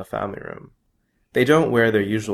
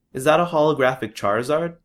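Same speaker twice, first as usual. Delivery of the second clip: put-on quick, higher, eager boy's question; 6 semitones higher, 3 dB louder, faster than usual. A narrator's reading. Boy asking his cousin about the card, excited. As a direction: rush it out, wide-eyed at the card.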